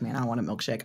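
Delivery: low indifferent tone. Game master voicing d t, who shrugs at the players, very indifferent. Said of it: "very indifferently be like".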